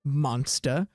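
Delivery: chuckle, then declaim like a haughty cat; talking cat. Acted. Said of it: "looks up at you and he goes".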